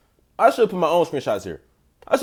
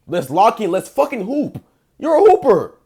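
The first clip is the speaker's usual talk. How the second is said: hype shout; 4 semitones higher, 5 dB louder than usual. Acted.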